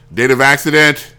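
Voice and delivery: curt, mildly annoyed receptionist; mock annoyance at a caller; annoyed secretary. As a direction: imitate an irritated secretary taking a routine call. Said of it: "she was sounding annoyed with me".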